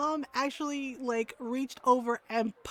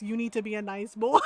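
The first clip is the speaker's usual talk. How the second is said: amused mom quote; 4 dB louder than usual. Retold or imitated. Repeats mom's line, cracking up.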